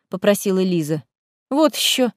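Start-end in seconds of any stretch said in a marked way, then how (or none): 1.5-2.1 catlike snort. Acted. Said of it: "совершенно по-кошачьи фыркнула Корнелия".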